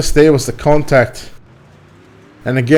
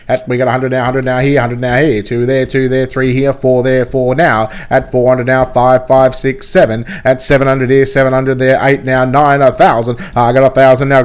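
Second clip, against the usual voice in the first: auctioneer; 2 semitones lower than usual. Pretend. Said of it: "I can sound like an auctioneer too".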